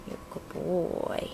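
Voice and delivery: soft, slow praise. Real, not acted. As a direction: reassure the bird tenderly. Praising bird gently.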